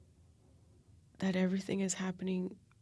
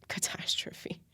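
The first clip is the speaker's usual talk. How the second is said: whispered echo. Shown as a demonstration. Echoing her own word to viewers, whispered. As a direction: repeat Catastrophe as a hushed whisper to yourself.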